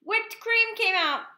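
high, loud, drawn-out announcement; spring the silly surprise loudly and slowly; excited reveal. A narrator's reading.

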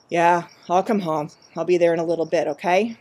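weary, a little sad reassurance; tired and sad. Acted. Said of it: "He sounded tired and more than a little sad".

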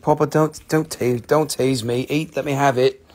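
lightly voiced pleading pet; dog's voice. Seller voices the teased dog wanting the rock, mild mock plea. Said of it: "You think".

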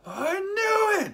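high, drawn-out triumphant shout; loud vindicated cry, slowed right down; Thor. Retold or imitated. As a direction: imitate a delighted hero crowing. Retells Thor's delighted shout.

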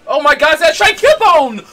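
high, very loud thrilled yell; ecstatic shriek. Real, not acted. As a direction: shriek it in delighted disbelief. Finds rare shiny creature.

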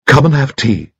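put-on very high, piping chatty old gentleman; cheerful little squeaky voice; high-pitched Bunchy. Old friend greets Troy at the gallery, high piping chatter.

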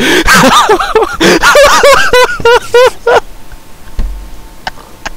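long, very high fright laughter; helpless high laugh after a scare; high shrieking laugh. Real, not acted. Gamer startled by a spider, high shrieking laugh.

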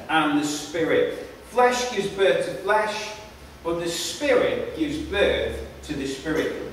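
measured public Bible reading; emphatic openings, falling phrase endings; scripture reading. A narrator's reading. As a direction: read it out deliberately, phrase by phrase. Reads the Bible passage aloud.

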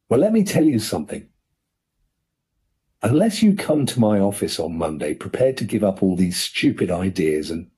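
furious uncle. Acted. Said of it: "turning violently on Corky".

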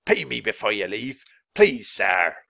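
pleading innkeeper's whine; wheedling put-on innkeeper voice; whining. A narrator's reading. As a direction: beg to be paid, whining. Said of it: "Mister Pinch whined".

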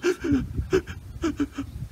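high, shuddering gasps; frightened gasping. A narrator's reading. Kowhai's sap runs cold, gasping in fear. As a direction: gasp in short fearful bursts. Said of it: "sap ran cold".

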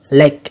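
lake with an "ay" vowel; long A sound. Shown as a demonstration. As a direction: repeat lake, showing the long A. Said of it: "âm A".

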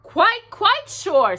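high, slow, certain bear voice; high, slow Pooh voice, insisting. A narrator's reading. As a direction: draw it out high and sure, like Pooh.

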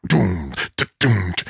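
low, thudding imitated beat; punchy drum sound. Comparing two versions, punchy imitated drums. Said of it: "packs a lot more punch".

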